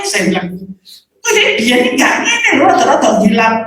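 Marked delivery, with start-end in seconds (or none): 1.2-3.6 high chatty remark; lightly voiced bystander; quoted bystander. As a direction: mimic a nosy bystander. Retelling someone's remark.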